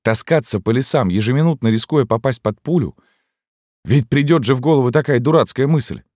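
high, loud exasperated scolding; indignant. A narrator's reading. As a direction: rant at the foolish woman, up high. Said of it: "не могла успокоиться".

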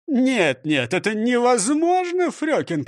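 mild moaning refusal; groaning protest. Acted. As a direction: plead with a groan. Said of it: "простонал он". (со стоном)

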